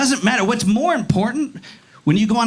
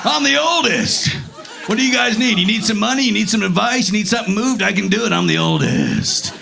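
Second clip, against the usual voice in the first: mock heroic eldest. Oldest child offering the family help, mock heroic. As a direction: play an overeager hero offering help. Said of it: "Fucking Captain America bullshit".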